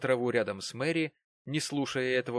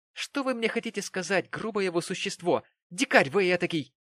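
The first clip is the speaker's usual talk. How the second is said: very high, rising to loud; mock-scolding Mary; 8 semitones higher, 5 dB louder than usual. A narrator's reading. Mary mock-scolds her rough fiancé. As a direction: scold him playfully, louder at the end.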